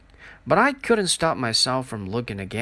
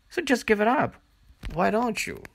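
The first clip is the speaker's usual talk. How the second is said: high, spiteful dare; taunting jab; 8 semitones higher than usual. Acted. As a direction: fling it as a nasty dare. Girls taunting each other.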